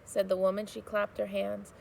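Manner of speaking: put-on steady storybook reading for children; read-aloud narration. A narrator's reading. Teacher reading a chapter aloud to students, storybook narration. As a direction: read the chapter to the class, gently paced.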